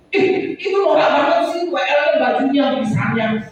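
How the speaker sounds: mildly hammed-up griping; mock complaint. Churchgoer griping about the worship leader's outfit, mock complaining. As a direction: imitate a picky churchgoer's grumble. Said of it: "protes sama W L".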